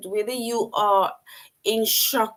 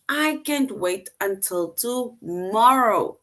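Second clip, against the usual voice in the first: eager; slower than usual. Shown as a demonstration. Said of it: "the person now saying".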